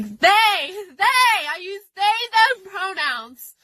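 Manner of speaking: insistent retold yell, slowing on they. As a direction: hammer out the pronouns like you did at her. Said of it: "I ended up yelling at her".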